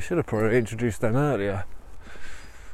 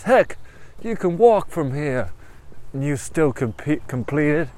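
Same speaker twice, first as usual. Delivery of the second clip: higher, punchy American pep talk; rally them in a put-on American voice; motivational American tiger; 5 semitones higher, 3 dB louder than usual. American tiger urging runner to walk on, upbeat and motivational. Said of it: "the tiger's a bit American".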